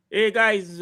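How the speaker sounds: put-on Fabrizio-style Spanish accent on a football update. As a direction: open like a Spanish transfer reporter. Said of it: "he went Spanish for a minute".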